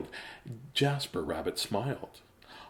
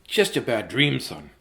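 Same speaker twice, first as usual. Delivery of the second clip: lightly voiced dad; a hint of a reassuring father; 6 dB louder than usual. Dad soothing his son after nightmare, a hint of father. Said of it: "his father said".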